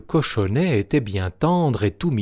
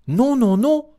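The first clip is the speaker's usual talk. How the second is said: very high, loud squeaky piglet no; little pig refusing; 13 semitones higher, 5 dB louder than usual. A narrator's reading. The little pig refuses the wolf, high loud squeal.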